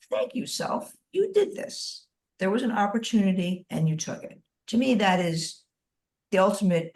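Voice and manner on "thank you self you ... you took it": mean every word, spoken inward; sincere self-thanks. Shown as a demonstration. Leader showing the group how to thank themselves, sincerely. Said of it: "You're like".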